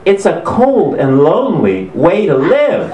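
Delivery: high, slow, wavering lament; hammed-up emotional plea; mock tearful. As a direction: imitate a host misting up. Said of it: "he's misting up".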